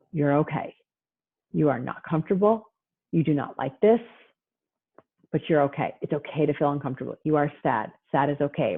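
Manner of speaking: calm, matter-of-fact comforting; reassuring. Shown as a demonstration. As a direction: steadily acknowledge the child's feeling, unhurried and even. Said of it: "reassure, and repeat".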